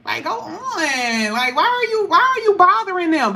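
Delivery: half-laughing, tell them to go on somewhere; irritated reader scolding a card; mock exasperated scolding. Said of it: "I'm like".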